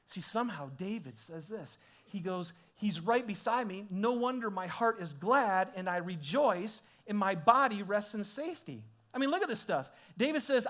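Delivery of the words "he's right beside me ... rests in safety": fervent quote. Retold or imitated. Quoting David with fervour.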